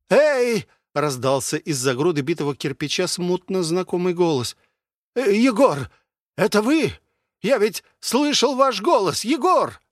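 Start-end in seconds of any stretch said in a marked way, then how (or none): 0.1-0.7 loud, high call. Acted. Old friend calling out to the huntsman, loud. 5.1-9.8 high, eager calling voice; excited old friend. Acted. Former designer hailing Yegor from behind the bricks, excited.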